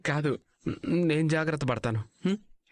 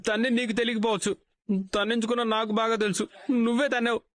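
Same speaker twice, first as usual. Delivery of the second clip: indignant shout; 4 semitones higher than usual. Acted. Husband accuses wife of kicking.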